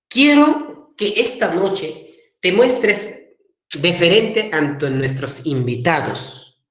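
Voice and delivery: father instructing his son, slow and deliberate; slow, measured fatherly request; lightly voiced formal father; acted father.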